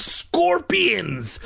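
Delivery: whispered in horror; horrified whisper. Acted. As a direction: breathe it out in disgust. Discovers scorpions.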